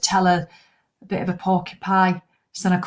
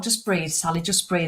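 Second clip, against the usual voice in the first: soft, quieter self-reassurance; calming self-talk; 2 semitones lower, 5 dB quieter than usual. Retold or imitated. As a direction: talk yourself down softly before the dentist. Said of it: "I just thought".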